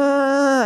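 a short, high, put-on whimper "Ah"; mock fake cry. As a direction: imitate a child's fake crying wail. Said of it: "like, fake crying".

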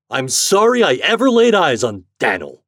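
high, loud, exasperated outburst; exclaiming. A narrator's reading. Store owner fed up with the turkey, exclaiming. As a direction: exclaim it with full regret. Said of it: "exclaimed Mister Richards".

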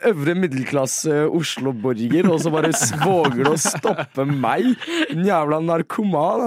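slow, indignant snob in a lightly put-on voice; a hint of the snooty Oslo character Snuset; slow huffy Oslo snob, lightly voiced. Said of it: "Det er Snuset som prater nå".

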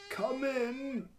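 put-on high, thin old man calling; very old faint voice. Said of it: "The voice of a very old man".

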